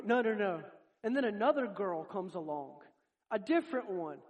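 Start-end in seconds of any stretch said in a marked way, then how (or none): 0.1-0.6 acted louder string of denials; hasty denial. Peter denying he was with Jesus, hasty loud denial. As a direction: brush off the accusation loudly.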